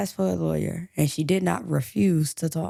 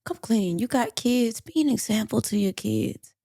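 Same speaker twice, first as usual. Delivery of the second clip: earnest, slightly raised plea; good cop urging; 3 semitones higher than usual. Acted. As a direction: coax a suspect toward confessing. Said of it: "he's playing good cop. He's urging Latasha".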